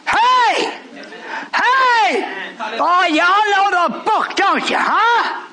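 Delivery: high, laughing shout; real laughing joy; laughing delight. Real, not acted. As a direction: laugh it out to the crowd.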